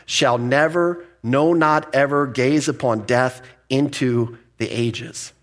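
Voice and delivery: "never, no, not ever" slow and weighty, each word set apart; strong emphasis. Shown as a demonstration. Preacher putting Jesus' promise all together, strong and emphatic. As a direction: stretch out "never", then land "no, not ever" deliberately. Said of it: "You see how strong that is?".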